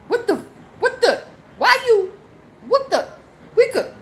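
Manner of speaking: high, hammed-up incredulous mock voice; mocking critics. Mocking people who call her crazy. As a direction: parody the doubters with laughter. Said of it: "They'll be like".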